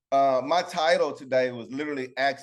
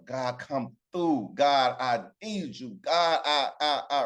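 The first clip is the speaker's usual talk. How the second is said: pleading prayer; slower than usual. Acted. Acts out believer begging God.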